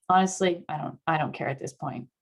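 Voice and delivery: mild can't-be-bothered shrug, dropping away; apathetic. Acted. Answering a partner's suggestion from apathy, listless. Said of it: "We begin this state at apathy".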